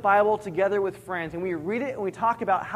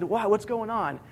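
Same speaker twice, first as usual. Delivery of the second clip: composed, mildly questioning; calm reply. Retold or imitated. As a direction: answer an angry man without rising to it. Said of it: "I answered calmly".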